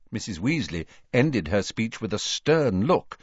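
ordinary delivery, nothing marked

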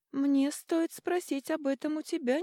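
lightly voiced creaky old man. A narrator's reading. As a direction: creak it out like an elder. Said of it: "проскрипел старик".

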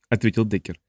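usual speaking voice

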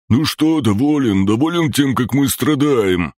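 very high, bitter creature voice; high-pitched acted snarl; snarling reproach. A narrator's reading. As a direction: throw the accusation out high and pained. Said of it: "оскалился зелёный".

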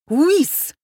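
high, loud yelp of shock; yell. A narrator's reading. Footman yelling on seeing his former wife, high yelp. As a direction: wail it out in shock. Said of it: "завопил Михайло".

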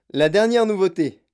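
loud, proud announcement; proud loud cry. A narrator's reading. Wonka proudly presenting his new candy to the children. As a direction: show off the new invention loudly. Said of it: "s'écria fièrement Monsieur Wonka".

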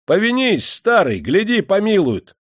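very high, loud teasing call; mischievous shout. A narrator's reading. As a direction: tease the condemned man at high pitch. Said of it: "Из озорства палач выкрикнул".

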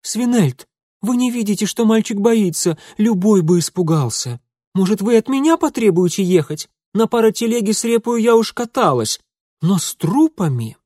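high, loud outraged reproach; indignant scolding. Acted. Lady scolding her husband over the frightened boy, high and loud. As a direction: give him a piece of your mind.

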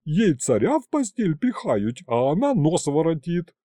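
высокий громкий сварливый окрик старухи; одёрни девчонку громко и сварливо. A narrator's reading. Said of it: "рявкнула Агриппина Павловна". (ворчливая тётка громко отчитывает Тамарку, повыше и погромче)

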